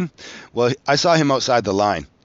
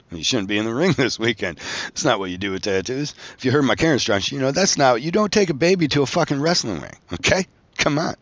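rising higher into exasperated disbelief; exasperated scolding; 3 semitones higher than usual. Retold or imitated. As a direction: scold a careless client, voice climbing. Scolding client about wrestling after tattoo.

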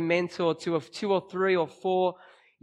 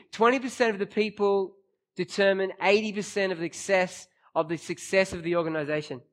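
bad acting. Shown as a demonstration. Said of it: "I read it badly".

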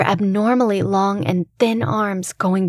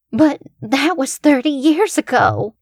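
shocked; 6 semitones higher than usual. Acted. Shocked grandmother gasps.

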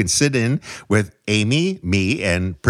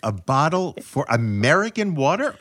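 laughing disbelief; 6 semitones higher than usual. Real, not acted. Disbelief at price.

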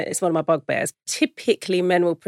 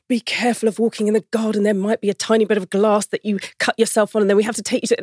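imitating anxious parent; 3 semitones higher, faster than usual. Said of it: "in the tone of voice that I've said to them".

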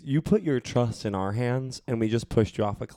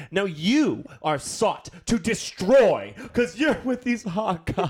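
movie trailer voice; 7 semitones higher, slower than usual. Pretend.

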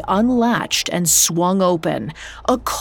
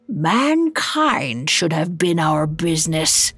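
growled; 2 semitones lower than usual. Acted. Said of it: "He pointed his finger at Scrooge and growled".

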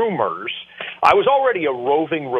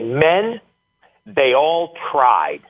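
slow, drawn-out pronouncement with rising brand names; a hint of a booming football coach preaching to his team; slower than usual. Head coach holding up ice water to his players, lightly booming. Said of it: "he said it in his booming voice".

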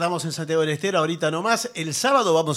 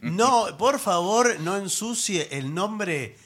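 mock indignant; 2 semitones higher, slower than usual. Mock defense of Rolón.

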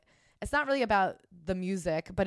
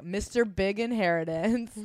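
drawn-out mock name; slower than usual. Mocking a hypothetical DJ name.

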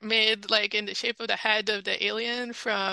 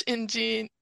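ingenuity said with a French Canadian accent; faster than usual. Real, not acted. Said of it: "you can see my French, French Canadian accent showing up there".

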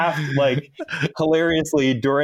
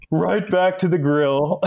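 slow, slightly higher nerd imitation; Napoleon Dynamite; 4 semitones higher than usual. Officer quoting his driver's punchline, lightly imitated nerd drawl. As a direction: draw it out like a resigned movie nerd, lightly mimicked. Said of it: "he tells it like in the, the Napoleon Dynamite".

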